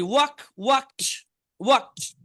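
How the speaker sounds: ওয়াকড pronounced "wakt"; teacher's careful drill of ওয়াকড with a t ending; final t sound. Shown as a demonstration. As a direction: end ওয়াকড on a released t, not d. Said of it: "টি উচ্চারণ হবে".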